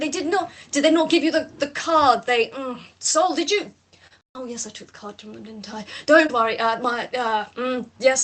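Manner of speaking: lightly voiced fretting gentleman, tutting dear dear; mild fluster, fussing over the missing card; flustered Lau. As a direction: fuss like a worried host. Lau frets about the card.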